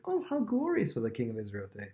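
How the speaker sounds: sincere-sounding gush, put on as a contrast; mock admiring. Shown as a demonstration. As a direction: lightly imitate wide-eyed admiration. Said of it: "She's not being like".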